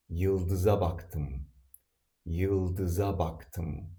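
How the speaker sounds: Yıldıza baktım spoken slowly and carefully; slow teaching read. Shown as a demonstration. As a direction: read the model sentence slowly for students to repeat. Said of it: "Here is an example sentence".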